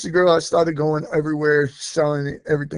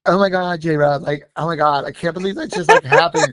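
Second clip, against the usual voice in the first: imitated white-girl accent, pitch jumping at the end; Lily sounding white. Friend gushing to J-Rob in disbelief, mock white-girl accent. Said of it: "she sounded so white".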